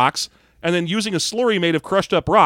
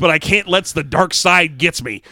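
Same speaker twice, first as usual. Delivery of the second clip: put-on old prospector. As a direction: play a crusty old gold miner. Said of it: "why has Luke Skywalker become an old prospector".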